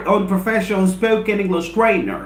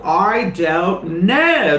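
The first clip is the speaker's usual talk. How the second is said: drawn-out i don't know; much slower than usual. Acted. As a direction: let the answer hang, unsure. Rhetorical question answered by himself.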